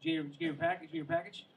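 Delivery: sing-song tease on package, lifted high; mock package joke. Teasing a neighbor at the mailbox, high playful voice.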